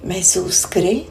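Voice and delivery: unhurried meditation guide, phrase by phrase; guided meditation. Acted. Meditation teacher telling listeners the ground holds their weight, guided meditation. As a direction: ease the listener into rest with spaced-out phrases. Guides body awareness while relaxing.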